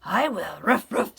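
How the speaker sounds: loud acceptance with quick barks; eager dog. A narrator's reading. Dog accepting the hen's bread, loud and doggy. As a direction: jump in and bark. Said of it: "said the dog".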